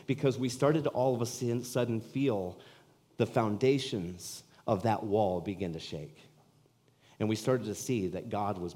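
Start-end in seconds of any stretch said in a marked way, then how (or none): 0.1-6.2 slow emphasis. Real, not acted. Preaching slowed for effect.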